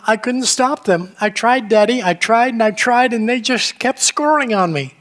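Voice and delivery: mild tearful plea, I tried; understated sob of a little goalkeeper; boy sobbing. Retold or imitated. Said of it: "the boy sobbed".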